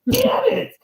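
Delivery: very high, cracking cry of despair; anguished mock cry. Fan fooled a third time, crying out in anguish. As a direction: wail it like a fan who has had enough. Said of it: "And I'm like".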